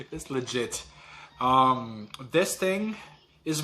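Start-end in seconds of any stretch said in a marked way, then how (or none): 0.1-0.8 laughing. Real, not acted. Laughing at the chip's heat.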